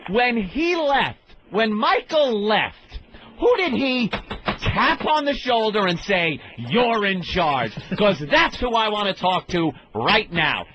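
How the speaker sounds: slow, measured retold anger; getting mad. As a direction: spell out a demand, drawing out each phrase. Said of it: "then I start getting mad".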